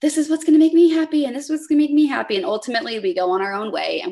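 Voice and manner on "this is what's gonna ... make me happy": high, loud, fast mock squabble; tossing the argument back and forth; light hammed-up quarrel; mock bickering. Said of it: "we kind of argue back and forth".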